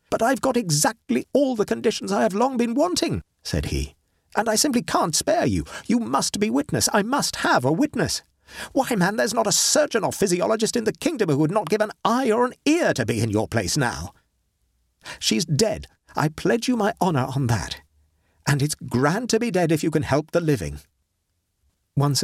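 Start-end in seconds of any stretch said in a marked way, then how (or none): 0.1-3.2 raised, urgent scientist's voice; a doctor gripped by his discovery, pressing hard; Horton, eager. Acted. Horton presses his reluctant friend, raised and urgent. 4.3-20.8 raised, urgent scientist's voice; a doctor gripped by his discovery, pressing hard; Horton, eager. Acted. Horton presses his reluctant friend, raised and urgent.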